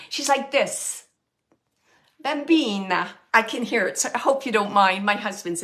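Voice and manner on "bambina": a light, exaggerated Italian nonna; playful Italian nonna cooing; Italian grandma accent. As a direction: coo it like a doting Italian grandmother. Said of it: "so I'm just exaggerating a little".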